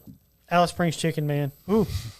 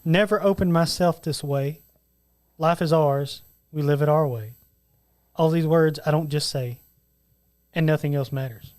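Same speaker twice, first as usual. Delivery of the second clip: romantic lyric reading; 2 semitones lower than usual. Acted. Quizzes John with a lyric as poetry, romantic recitation.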